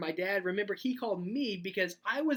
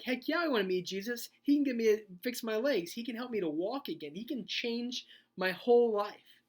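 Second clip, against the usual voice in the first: lightly hammed-up eagerness, pitched higher; acted excitement; 3 semitones higher than usual. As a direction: play someone eager for a hoped-for cure, voice raised. Voices eager paralyzed man meeting Jesus.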